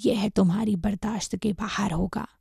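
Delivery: husky, hushed scolding with contempt; scornful anger. Acted. Master threatening the monkey with the mantra, scornful. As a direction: rebuke with understated, breath-laden scorn. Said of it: "उसने तिरस्कार पूर्वक कहा".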